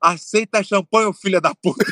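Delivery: mock heckling call. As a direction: stretch it out like a playful heckle. Reads friend's message like the heckle.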